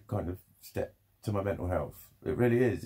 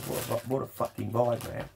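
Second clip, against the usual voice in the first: put-on Australian accent. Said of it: "I can't do an Australian accent".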